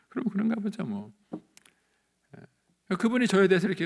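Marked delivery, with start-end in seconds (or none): 0.1-1.1 very high, singsong brush-off; breezy dismissal. Retold or imitated. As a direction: shrug it off in a high voice. Carefree reply to gossip. (높은 목소리로 태연하게 흘려 넘기기)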